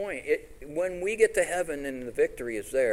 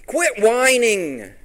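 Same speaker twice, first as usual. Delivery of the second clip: stern rebuke; 10 semitones higher, 11 dB louder, much slower than usual. Acted. Preacher rebuking the congregation.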